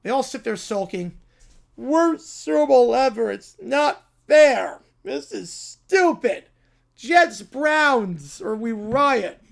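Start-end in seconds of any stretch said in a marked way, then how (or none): 1.8-9.4 sulky brat whine. Acted. Brats sulking, demanding.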